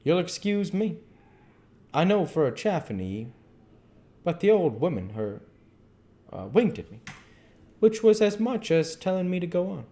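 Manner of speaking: put-on a genial old keeper spinning a yarn; an old keeper chatting to a reporter; old zookeeper. A narrator's reading. Keeper tells his story.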